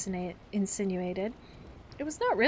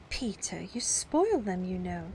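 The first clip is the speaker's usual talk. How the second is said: simpered; slower than usual. Acted. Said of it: "Wendy simpered".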